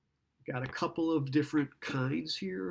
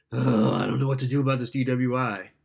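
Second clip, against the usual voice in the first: client voice; 8 dB louder than usual. Shown as a demonstration. Role-playing a distressed client.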